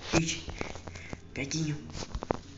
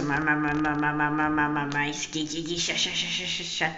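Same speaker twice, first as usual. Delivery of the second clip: stammering. Acted. Stuttering character Gaguinho.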